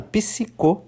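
"psico" with the P clearly sounded; P pronunciado. Shown as a demonstration. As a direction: sound the P before the S in "psico", softly. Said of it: "mas ele é pronunciado". ("psico" com o P pronunciado)

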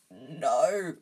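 hoarse croaked no; croaking. Acted. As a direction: croak it out in dread. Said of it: "croaked Harry".

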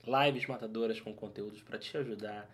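smooth, soft PA announcer voice; airport announcement. Pretend. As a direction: read it like a terminal announcement. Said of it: "eu tentei fazer a voz do aeroporto". (voz de anúncio de aeroporto)

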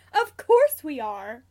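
loud, slow insistence; emphatic cry. A narrator's reading. James insists they are keeping the cub, emphatic. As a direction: insist with great enthusiasm. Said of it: "James cries".

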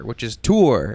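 "tour" with a lengthened oo; longer-sounded tour. Shown as a demonstration. Citing the phonetic spelling, long oo in "tour". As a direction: say "tour" as TOO-r, holding the vowel. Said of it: "It's, like, a longer sound".

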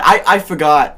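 put-on Boston accent, forgot sounds like faggot. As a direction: drop the r, Boston style. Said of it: "I was just doing a Boston accent".

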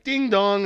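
high two-note "ding dong"; imitated doorbell. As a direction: chime it like a doorbell. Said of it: "the buzzer".

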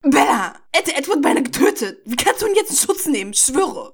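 high, heated outburst; angry growl. A narrator's reading. Rosalie rounding on Bella for protecting him, angry. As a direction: confront her in acted outrage. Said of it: "Knurrte sie".

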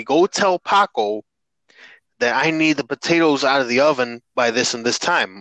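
lightly voiced old Mexican grandmother.

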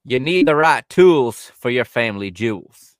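a slow, deep-ish sponsor line, tongue in cheek; hammed-up slogan delivery; imitating J R's ad. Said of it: "you gotta do it like J R on his show".

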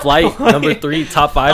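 slow laughing boast; drawn-out joking brag. Real, not acted. Joking ranking.

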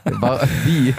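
laughing. Real, not acted. Laughing while teasing friend.

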